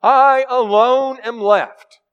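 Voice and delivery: mock-tragic lone prophet; self-pitying Elijah. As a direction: stretch each word like a martyr. Elijah's complaint, final line.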